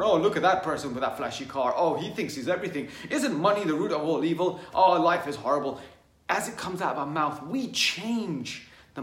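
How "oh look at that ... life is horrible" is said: loud, scornful gripe with a laugh; mock complaining. Speaker imitating someone complaining about a rich neighbour, loud and scornful. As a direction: sneer at the flashy car owner. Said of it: "Whenever we are complaining about someone".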